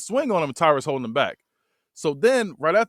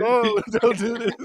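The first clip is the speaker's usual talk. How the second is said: 높고 느린 애원조로 흉내내며; "no, don't" stretched slow and high, begging; mock pleading; 7 semitones higher, slower than usual. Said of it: "I'm like".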